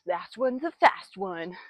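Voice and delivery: slow, drawn-out coach chant; track coach saying. Retold or imitated. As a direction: lightly quote the old coach. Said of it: "my track coach used to say".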